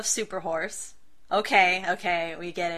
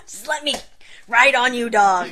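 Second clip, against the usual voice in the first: loud, begging plea; pleading to a dog; 3 semitones higher, 8 dB louder than usual. Retold or imitated. Imagining asking a Great Dane for a ride, loud mock plea. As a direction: beg the big dog to let you ride. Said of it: "It's like".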